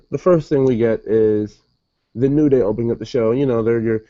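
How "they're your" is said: long, stretched ring-announcer boom; announcer drawl. Retold or imitated. Mimicking Xavier hyping the tag team champs, drawn-out announcer call. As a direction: drag each word out like a hype announcement. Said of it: "Xavier likes to so often tell us".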